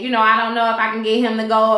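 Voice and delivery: talking with a dry mouth; words sticky from a dry mouth. Real, not acted. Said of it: "My mouth is getting really dry".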